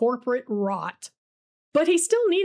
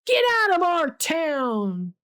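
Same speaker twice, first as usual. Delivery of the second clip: raised, higher angry shout from the crowd; yelled heckle; 6 semitones higher than usual. A narrator's reading. Heckler in the crowd yells at Hunter, angry shout. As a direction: heckler yelling him out of town. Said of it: "Someone else yells".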